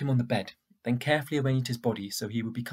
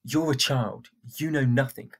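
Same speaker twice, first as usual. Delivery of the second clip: scornful; 4 dB louder than usual. Acted. Boy snaps at girl.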